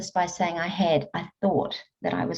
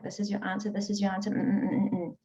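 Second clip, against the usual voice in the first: mock telling; 6 dB quieter, faster than usual. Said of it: "somebody just tells you things like".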